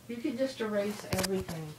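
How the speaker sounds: whisper. Real, not acted. Asks grandchild to erase video.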